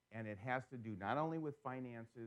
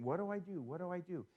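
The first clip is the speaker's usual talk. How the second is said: mock anxious fretting; 6 semitones higher than usual. Mimics an anxious investor.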